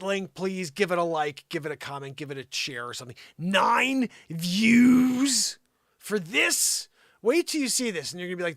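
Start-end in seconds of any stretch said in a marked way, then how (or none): 3.4-6.9 breathy stunned whisper. Real, not acted. Vlogger staring at the view count, stunned whisper. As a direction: let it out under your breath in disbelief.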